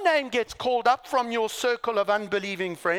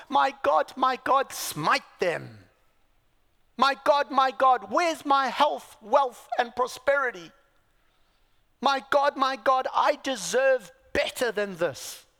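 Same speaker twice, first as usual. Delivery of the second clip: mock entitled demand; 3 semitones higher, 4 dB louder than usual.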